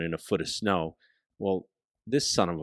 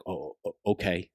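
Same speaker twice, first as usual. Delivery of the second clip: a little stutter, softer; 5 dB quieter than usual. Retold or imitated. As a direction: stammer on the first word, then okay. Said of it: "stutters a little".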